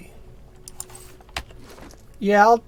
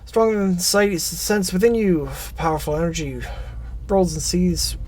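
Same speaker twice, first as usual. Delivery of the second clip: game text narration; faster than usual. Acted. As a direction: read the vision out like a storyteller. Reads game text aloud.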